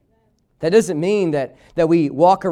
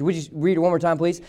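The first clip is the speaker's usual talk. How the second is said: normal talking voice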